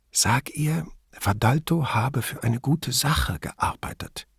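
soft, slow conspiratorial whisper. A narrator's reading. Grifoni prompting Brunetti during a phone call, whispering. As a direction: whisper it so the phone can't pick it up. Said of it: "flüsterte sie".

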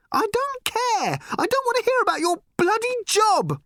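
put-on high, loud girl's scream; a furious daughter shrieking at her mother; shouting teenage girl. A narrator's reading. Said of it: "shouted Random".

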